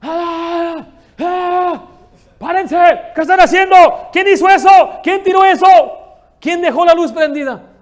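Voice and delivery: full-throated high screaming tirade; very loud, high-pitched shouted demands; enraged yelling. Acted. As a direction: bellow at the whole household on waking. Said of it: "Y se levanta gritando".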